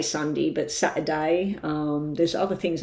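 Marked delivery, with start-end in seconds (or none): 0.0-0.5 Sunday said as sun-dee; short "dee" ending. Shown as a demonstration. Telling viewers what she never says, Sunday as sun-dee. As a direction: end Sunday on "dee", not "day". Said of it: "I never say Sunday".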